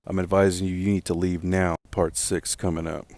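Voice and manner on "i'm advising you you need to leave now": slightly raised, firm official warning; mild retold shout, pressing the command; retold guard's shout. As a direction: imitate a guard's stern order, half-shouted. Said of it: "Security guard shouted".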